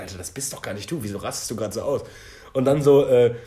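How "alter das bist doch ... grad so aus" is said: inner voice. Retold or imitated. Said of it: "dann ist mir aufgefallen".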